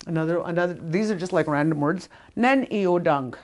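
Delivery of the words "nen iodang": slow, firm command. Shown as a demonstration. Speaker teaching the Dakota command, firm and slow. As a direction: tell them to sit, no asking. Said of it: "that I'm telling you".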